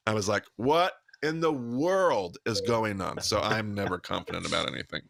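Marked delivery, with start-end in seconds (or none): 0.6-3.2 slow, drawn-out exasperated disbelief; mock bafflement. Telling of hearing the rabbi contradict the others, mock bafflement. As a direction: stretch out "what in the world" in playful confusion.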